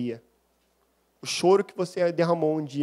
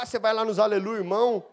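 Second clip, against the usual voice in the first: lightly mocking, higher-pitched tease; retold taunt, pitched up; mocking jibe; 4 semitones higher, faster than usual. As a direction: imitate a mild scoff at churchgoers. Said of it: "os crentes de Aleluia, irmão".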